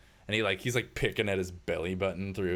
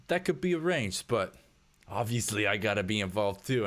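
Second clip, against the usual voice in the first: creepy; 3 semitones higher than usual. Acted. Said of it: "kinda creeping out".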